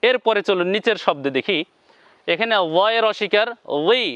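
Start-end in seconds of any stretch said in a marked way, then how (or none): 3.9-4.0 "ওই" with a thick, emphatic opening sound; heavy consonant. Shown as a demonstration. Teacher introducing the thick letter, "ওই" said heavy. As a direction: make the start of "ওই" full and heavy. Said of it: "মোটা হবে".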